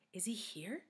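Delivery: hushed, unvoiced whisper; whispered question. A narrator's reading. Dee Dee to Myron beside her, whispered. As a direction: whisper it so nobody else hears. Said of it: "she whispered".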